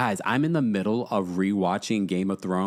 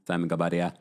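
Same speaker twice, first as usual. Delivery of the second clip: lower, playful take on the name Simon; imitating Simon's voice; 7 semitones lower than usual. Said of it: "Why do you say Simon's name like that".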